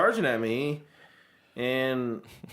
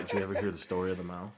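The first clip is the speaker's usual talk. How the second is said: put-on low, quick old sea-dog yarn; old sailor voice; 9 semitones lower, 11 dB quieter, faster than usual. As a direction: spin it like an old sailor in a bar. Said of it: "like that old sailor".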